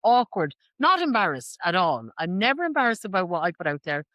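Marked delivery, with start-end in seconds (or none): 0.0-0.5 slow, loud, drawn-out emphasis; drawn-out awkward. Real, not acted. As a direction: stretch the so slowly and loudly. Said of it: "I'm, like, so awkward".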